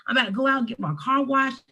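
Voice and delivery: bright, high put-on cheerful voice; faked breezy cheer; playing the part, faking cheer. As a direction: act fine and upbeat for a friend on the phone. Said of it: "I'm playing the part".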